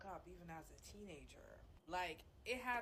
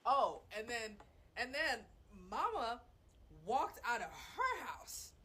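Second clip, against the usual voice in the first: much higher and louder, laughing through it; excited disbelief; 8 semitones higher, 16 dB louder than usual. Real, not acted. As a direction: build up in loud amused outrage. Retelling outrageous story, laughing.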